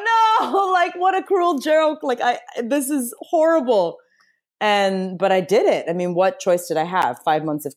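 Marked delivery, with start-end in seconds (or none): 0.0-4.0 high, slow, laughing wail of disbelief; laughing despair. Retold or imitated. Told by the doctor no spicy food, high laughing wail. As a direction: squeal it out half-laughing at the cruel joke.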